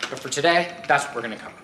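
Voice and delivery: breathless after holding the heavy wheel; winded, catching breath between words. Real, not acted. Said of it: "I'm a little out of breath".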